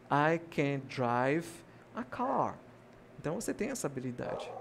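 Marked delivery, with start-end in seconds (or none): 0.1-2.6 slow model sentence. Shown as a demonstration. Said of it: "você vai dizer o verbo dirigir em inglês".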